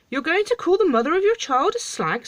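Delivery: high, loud incredulous question; outraged king. Acted. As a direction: explode in scandalised disbelief. Outraged king scolds the dwarf.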